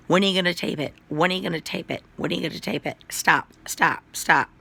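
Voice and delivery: urgent, repeated pestering, mildly re-enacted; insistent mock plea ending in punched stops; retold pleading. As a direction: plead impatiently, as if retelling it.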